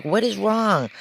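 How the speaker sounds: very high, loud exasperated outburst; pissed doctor. Retold or imitated. Doctor finding the bed soaked again, very high and loud. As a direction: blurt it out in disbelief. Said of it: "The doctor was pissed".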